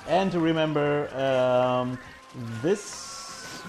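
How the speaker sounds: strained, choked-off words while held; in a headlock. Real, not acted. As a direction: voice squeezed by a headlock. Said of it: "He's got me in a headlock, guys".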